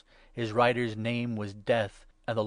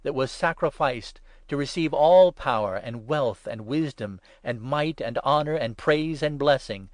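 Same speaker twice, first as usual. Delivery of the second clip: raised, loud proclaiming voice; loud, ringing acclamation; loud cry; 3 semitones higher, 8 dB louder than usual. A narrator's reading. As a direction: cry it out in praise to the heavens. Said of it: "they cried in loud voice".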